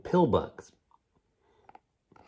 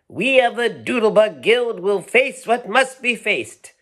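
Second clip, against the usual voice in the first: much higher, louder heroic leader voice; proclaiming; 12 semitones higher, 9 dB louder than usual. Acted. Doodlebug leader rallying his troop, proclaiming. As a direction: proclaim it like a brave little captain. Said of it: "their leader proclaimed".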